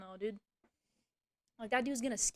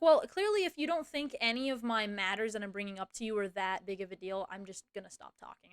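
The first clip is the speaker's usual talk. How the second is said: indignant opening settling into resigned shutdown; pointed retort; 3 semitones lower than usual. Retold or imitated. Employee shutting down the call with boss, pointed. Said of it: "I said it just like that".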